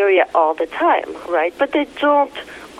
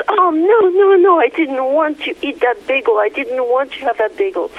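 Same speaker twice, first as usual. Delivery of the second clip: upset talking stomach; 3 semitones higher than usual. Retold or imitated. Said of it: "The stomach gets a voice and says".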